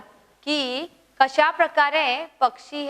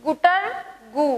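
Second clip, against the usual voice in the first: pigeon call. Shown as a demonstration. Teacher voicing pigeon for pupils to repeat, broken coo. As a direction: coo like a pigeon in two parts. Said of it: "माझ्या मागं म्हणायचंय".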